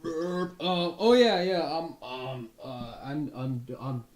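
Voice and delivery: woozy and lost; dazed recruit. Acted. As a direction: Dolph reporting groggily to the leader. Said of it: "off his feet".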